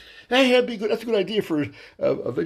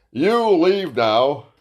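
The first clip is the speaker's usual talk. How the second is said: stern order; 4 dB louder, much slower than usual. Retold or imitated. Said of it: "husband pointed at me and said".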